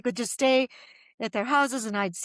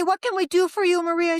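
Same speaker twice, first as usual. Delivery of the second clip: higher, louder, eager offer of help; eager official; 7 semitones higher, 5 dB louder than usual. Retold or imitated. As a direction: sound keen to help her.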